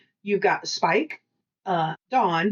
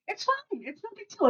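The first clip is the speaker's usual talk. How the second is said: mock crazy voice; 13 semitones higher, 6 dB quieter than usual. Self-mocking "I'm crazy" voice.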